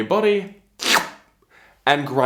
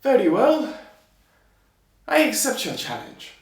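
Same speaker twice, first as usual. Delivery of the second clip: tailor voice; 8 semitones higher than usual. Acted. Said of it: "So he said".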